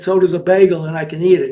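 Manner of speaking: understated imitation of a Jewish accent; slight Jewish accent. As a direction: quote it with just a hint of Jewish accent. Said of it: "with a slight Jewish accent".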